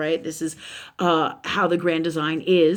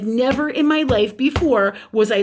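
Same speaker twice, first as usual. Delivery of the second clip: louder, higher, emphatic exasperation; frustrated; 5 semitones higher, 5 dB louder than usual. Retold or imitated. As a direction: retell it worked up and insistent. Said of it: "I've been super frustrated".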